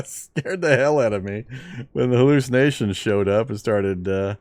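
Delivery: excited. Real, not acted. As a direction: still buzzing from the scare. Just got scared in game.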